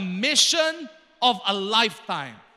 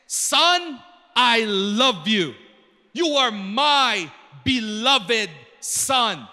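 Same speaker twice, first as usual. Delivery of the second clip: solemn declaration of love; 4 dB louder, much slower than usual. Acted. Preacher voices God to Jesus.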